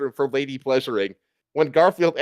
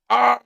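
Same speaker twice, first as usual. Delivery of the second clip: a short high cry of pain; burning king's cry; 10 semitones higher, 4 dB louder than usual. A narrator's reading. King burning in Lady Liberty's torch, short high cry. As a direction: yelp as if caught in the flames. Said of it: "cried out King George the third as he burned".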